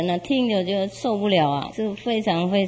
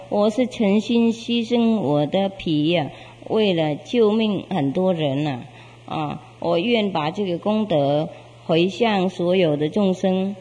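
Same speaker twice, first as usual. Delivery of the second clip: sincere vow. Acted. Beast's sincere final vow.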